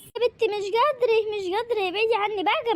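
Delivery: wearily fending off a nagging daughter; pleading refusal. Acted. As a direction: push the food away like a fussy patient. Sick mother refusing to be fed.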